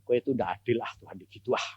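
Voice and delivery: a mild hint of a hurt child's grumble; sulky complaint. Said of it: "saya bilang gini".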